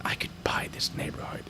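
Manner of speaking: hushed scheming whisper. Pretend. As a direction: whisper it like a secret plan. Daydreaming aloud about buying.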